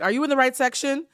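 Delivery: high, loud skeptical question; condescending question. Retold or imitated. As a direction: ask like she doesn't belong. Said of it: "Everybody's like".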